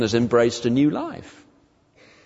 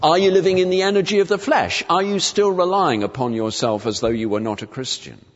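mock preacher; 2 semitones higher than usual. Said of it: "sermons on that verse which say".

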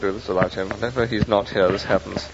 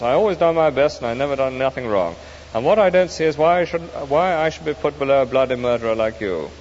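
aggrieved ghost; 3 semitones higher than usual. Acted. The ghost complains to the spirit, aggrieved. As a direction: complain bitterly about his place.

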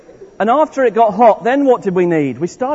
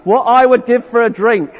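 mock thirsty longing; 3 semitones higher, 5 dB louder than usual. Shown as a demonstration. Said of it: "make thirsty noises".

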